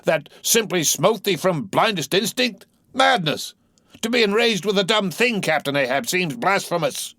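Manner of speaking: high, appalled protest; indignant outburst. Acted. Mate protesting to the captain, indignant. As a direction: rebuke the captain. Starbuck objects.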